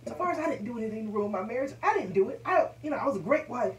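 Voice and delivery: defensive protest. Retold or imitated. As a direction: insist you did nothing wrong. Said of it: "And I said".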